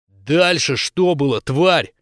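slow menacing demand; slow harsh interrogation. Acted. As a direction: press her hard. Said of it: "потребовала Хоуп".

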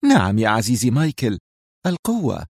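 القوة delivered smooth and calm; calm again. Acted. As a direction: settle back and say القوة serenely. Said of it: "عادت إلى هدوئها".

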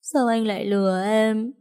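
high, drained crying questions; weak tearful plea. A narrator's reading. Grieving woman asking dead Vũ why he left her. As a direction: ask him through spent tears. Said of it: "phát ra thứ âm thanh yếu ớt".

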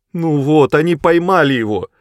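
high, loud cry of bitter dismay; a girl's loud, bitter outcry; bitter exclamation. A narrator's reading. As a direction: cry it out, heartbroken they caught him. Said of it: "горько воскликнула Сэдди".

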